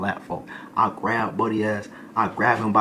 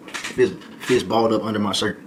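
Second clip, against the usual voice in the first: slow, emphatic. Shown as a demonstration. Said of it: "I'm sitting here like this".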